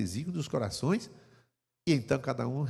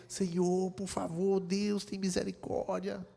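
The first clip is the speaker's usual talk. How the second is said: quiet pleading prayer; 4 semitones higher, 6 dB quieter, slower than usual. Shown as a demonstration.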